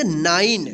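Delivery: "नाइन" as one syllable, silent final e; correct pronunciation. Shown as a demonstration. Teacher answers how to read it, "नाइन" with silent e. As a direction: end "नाइन" on a held n. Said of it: "क्या पढ़ेंगे?".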